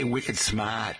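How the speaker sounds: wicked smart in broad Boston; Boston accent. Shown as a demonstration. Host asking listeners about their accents, Boston accent. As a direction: drop the R like a Bostonian. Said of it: "even a Boston accent".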